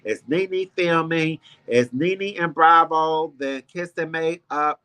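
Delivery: slow, drawn-out gossip questions; mock breathless blogs. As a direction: stretch each question out like a nosy headline. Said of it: "all the blogs is like".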